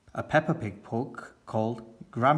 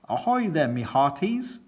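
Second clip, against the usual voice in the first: bellowing pirate hail; 4 semitones higher than usual. Acted. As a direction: bellow it like an old sea dog. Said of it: "bellows Grampy Rabbit".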